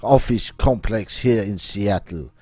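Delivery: put-on theatrical French-accented schemer. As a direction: announce the plan in a hammy French accent. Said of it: "my accent".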